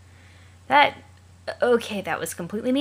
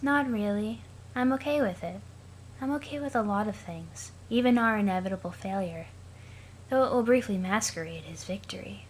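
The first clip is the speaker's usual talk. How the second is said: lifeless, monotone Aradia; flat as if long dead; 3 semitones higher, 4 dB quieter than usual. Acted. Aradia asks Sollux about teams, in a dead monotone. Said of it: "that's how I'll be reading Aradia".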